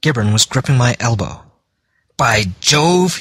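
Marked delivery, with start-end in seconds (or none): 2.2-3.2 high surprised outcry; startled cry. A narrator's reading. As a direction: burst out in surprise. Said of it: "he cried".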